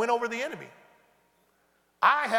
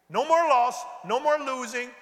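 preaching shout; 3 semitones higher, 5 dB louder than usual. Real, not acted. Preaching at full force.

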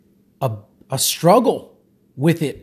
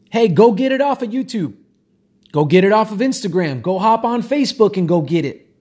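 urging subconscious; 3 semitones higher than usual. Pretend. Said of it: "the subconscious will get pretty specific".

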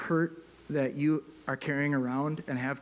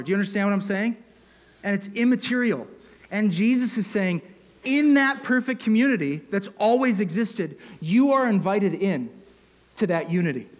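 higher and louder, building to a peak; impassioned preaching; 4 semitones higher, 5 dB louder than usual. Real, not acted. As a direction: preach it out, pressing the invitation.

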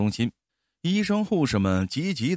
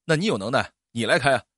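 a touch of grumpy sarcasm; sarcastic retort; 3 dB louder, faster than usual. Acted. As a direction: dare her to drive. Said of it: "司机没好气地说". (司机没好气地冷嘲热讽)

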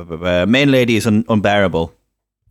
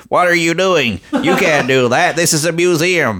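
high-pitched, slow, cartoonish outrage; hammy protesting museum guy; 7 semitones higher than usual. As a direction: protest like a children's TV character. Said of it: "And the guy's like".

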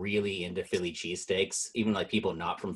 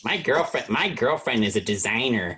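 put-on Chicago accent. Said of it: "Chicago accent".

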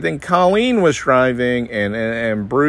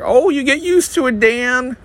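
high, chipper mock-cheerful voice; breezy upbeat Midwesterner brushing it off; Midwestern nice friend; 12 semitones higher than usual. Dan mocking his Midwest friends, high chipper voice. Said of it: "most of my friends in the Midwest are Midwestern nice".

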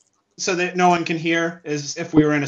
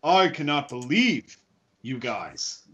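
mock-outraged disbelief at your friends; incredulous; 4 semitones higher than usual. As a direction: scold them in disbelief, swinging higher on the complaint. Acted in-character disbelief at friends.

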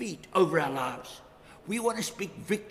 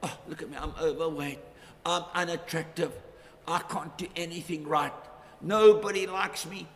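1 self-pitying moan; 3 semitones lower than usual. Retold or imitated. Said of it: "they say things like".

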